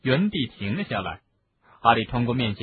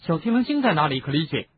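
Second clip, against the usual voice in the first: urgent demand; 5 semitones higher than usual. Acted. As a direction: press him for an answer.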